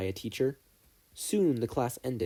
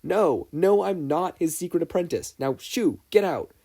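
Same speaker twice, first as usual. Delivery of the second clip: higher, louder, laughing as he shoos a friend off; laughing denial; 7 semitones higher, 5 dB louder than usual. Acted. Midoriya shooing his teasing friend out the door, laughing. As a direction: push him out with a laugh. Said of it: "laughing at his friend's antics".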